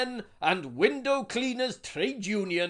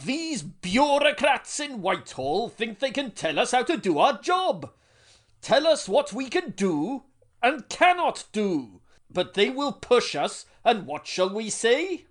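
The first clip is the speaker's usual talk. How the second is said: rousing union speech; 4 semitones higher, 6 dB louder than usual. Acted.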